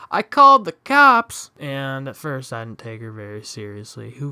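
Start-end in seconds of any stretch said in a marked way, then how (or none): 0.1-1.5 put-on a loud, much higher shout at the boys; retold yell. Angry neighbour yells at fleeing ding-dong ditchers. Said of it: "this lady yells out".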